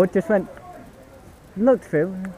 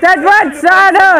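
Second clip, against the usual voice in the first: shouted call; 3 semitones higher, 6 dB louder than usual. Real, not acted. Repeated call.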